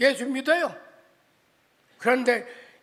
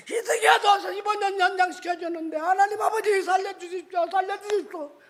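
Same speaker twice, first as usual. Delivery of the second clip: urgent prayer, pitched up at first; acted desperate pleading; 4 semitones higher than usual. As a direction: plead for a life in a retold prayer. Acted desperate prayer for son's life.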